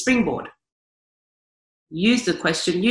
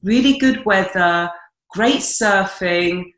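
slow, drawn-out list of platitudes; dull stock answer; 3 dB louder, slower than usual. Acted. Coach mimicking a boring reply about home, slow stock-answer delivery. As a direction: plod through it like a tired routine answer. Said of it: "most people say the usual bullshit".

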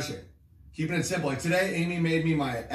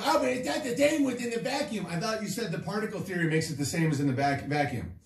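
mock quibbling objector; 2 semitones higher, faster than usual. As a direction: mimic a nitpicker butting in.

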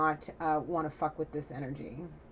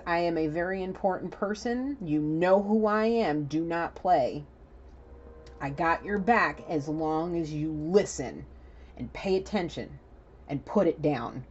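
stern sheriff. Acted. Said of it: "he's, he says".

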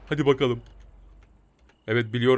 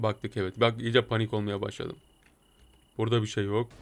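hushed; 5 semitones lower, 8 dB quieter than usual. Real, not acted. Sneaking in house, calming himself.

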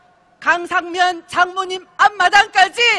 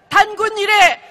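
roaring rallying speech; 3 semitones higher than usual. Real, not acted.

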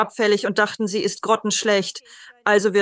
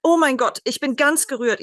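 higher-pitched, touched exclamation; moved, emotional; 4 semitones higher than usual. Real, not acted. Medium telling listeners of her calm onstage, genuinely moved. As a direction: let real emotion lift the voice. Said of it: "es macht mich gänsehäutig und emotional".

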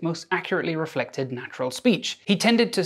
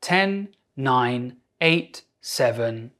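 steady counting; 2 semitones lower, much slower than usual. Shown as a demonstration. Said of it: "Let's do it together".

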